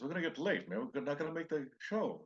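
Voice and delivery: mock panicked star; imitating worried Rodney. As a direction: fret about missing the show. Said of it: "And Ronnie goes".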